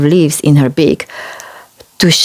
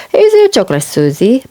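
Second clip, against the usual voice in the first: Peppa voice; 6 semitones higher, faster than usual. Acted.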